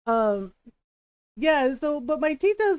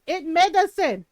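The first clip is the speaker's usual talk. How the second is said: lightly voiced protesting Filipino aunt, louder; defensive tita; 3 semitones higher, 5 dB louder than usual. Tita excusing her drink to mom, defensive. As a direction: imitate an aunt insisting, in accent. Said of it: "my tita goes".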